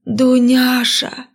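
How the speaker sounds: high, slow desperate call. A narrator's reading. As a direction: cry out the girl's name. Grandfather calls the girl. (отчаянный зов)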